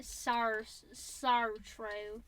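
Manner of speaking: halting, badly faked Australian "so true"; failed Australian accent. Shown as a demonstration. Struggling to copy co-host, botched Australian accent. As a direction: stumble through the Australian vowels. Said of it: "I cannot do Australian accents".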